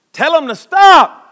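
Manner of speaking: high, loud, slow command; indignant demand. Acted. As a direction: cry out the complaint as an outraged critic. Acts out critics demanding a rebuke.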